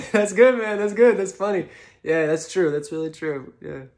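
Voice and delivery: overeager guy trying to top the joke; second funniest person chiming in after the laugh. Retold or imitated. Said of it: "impression of the second funniest person in a room".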